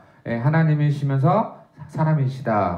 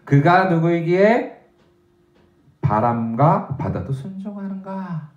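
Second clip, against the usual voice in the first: slow, weighty question; 4 semitones higher, slower than usual. Shown as a demonstration. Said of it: "마지막 우리에게 질문을 던져주죠".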